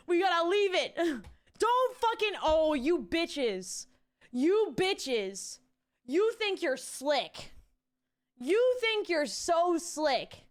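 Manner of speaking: hammed-up indignant yell; mock outrage. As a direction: tell off the sly chat.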